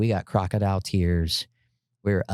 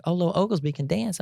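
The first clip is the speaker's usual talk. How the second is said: mock girl voice; 10 semitones higher than usual. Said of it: "choreographer girls were like".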